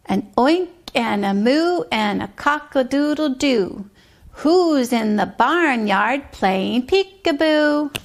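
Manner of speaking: put-on sing-song rhyme for a child; bouncy nursery rhyme read aloud; rhythmic rhyme reading. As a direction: chant the barnyard poem with a steady beat.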